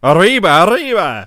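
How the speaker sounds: high, shouted cartoon mouse cry; Speedy Gonzales.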